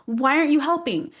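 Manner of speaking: imitating the son's complaint, half laughing; frustrated kid. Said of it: "getting really mad and frustrated".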